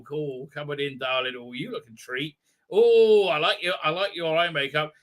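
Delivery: hushed camp compliment; camp Thal reply. Retold or imitated. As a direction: coo over their makeup, lightly voiced. Second camp Thal answering low.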